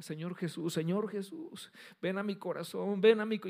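retold preaching. Guest preacher praying over the kneeling woman, slow fervent build. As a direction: pray over her, rising toward the end.

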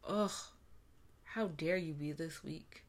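unvoiced, scornful whisper; whispered self-scolding. The inner voice scolding herself for crying, whispered. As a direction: hiss the put-down at yourself under your breath. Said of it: "I thought every tear that dropped".

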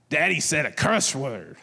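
put-on mildly indignant child tattling; a touch of mock outrage, lightly voiced as a little kid; imitating mad daughter. Daughter telling mom about Daddy's curse word, mildly mad imitation. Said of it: "she's, like, all mad about it".

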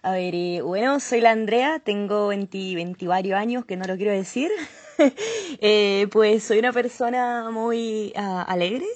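put-on light Chilean accent with po; casual Chilean Spanish, introducing herself. Introducing herself to the show hosts in Chilean accent. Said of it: "Acento chileno".

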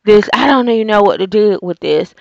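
flustered, fast mock panic; a hammed-up helpless flap; mock panicked. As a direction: play her as lost and overwhelmed. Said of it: "She was acting like".

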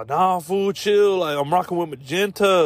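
mock gangster. Gang member replying.

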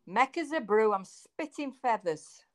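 broad Manchester dialect saying; Mancunian accent. Shown as a demonstration. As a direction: deliver a local phrase in Mancunian. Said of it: "real Mancunian phrase".

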